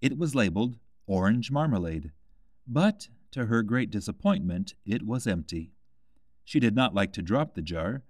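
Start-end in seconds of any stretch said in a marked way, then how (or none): none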